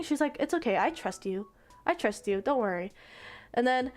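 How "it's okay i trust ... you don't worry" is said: reassuring. Retold or imitated. Reassuring the worried girl.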